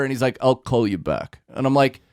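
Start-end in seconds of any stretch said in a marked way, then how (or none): 0.4-1.4 lower, glum mock Russian accent; lightly voiced gloomy Russian-accented clerk; Russian Eeyore. Clerk brushing off a caller, glum Russian accent. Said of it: "Russian Eeyore".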